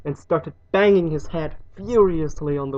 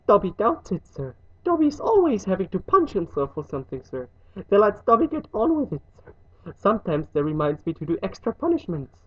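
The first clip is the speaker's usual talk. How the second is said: higher, quick elf voice; resigned house elf; 5 semitones higher than usual. Acted. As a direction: chatter on as a put-upon servant elf.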